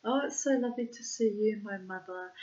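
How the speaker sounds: mock gushing that tails off; convivial act. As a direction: mimic a daughter's staged welcome. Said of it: "acting all very, you know, convivial".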